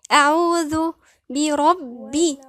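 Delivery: slow, measured Quranic recitation; careful recitation demo. Shown as a demonstration. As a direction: draw out أعوذ بربي syllable by syllable. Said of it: "لأنها من الحروف اللثوية".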